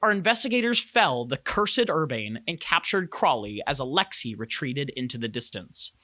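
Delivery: dramatic scene-setting narration; game master's recap. A narrator's reading. Game master recapping last session's fight for the players, dramatic narration. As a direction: narrate the story so far, each phrase carefully shaped.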